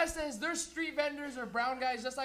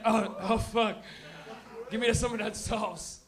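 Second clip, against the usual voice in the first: stoned fan; 4 dB louder, slower than usual. Retold or imitated. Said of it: "Every stoner in here is like".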